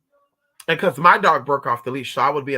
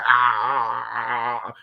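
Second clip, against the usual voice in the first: imitated dog growl; 4 semitones lower, slower than usual. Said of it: "She said".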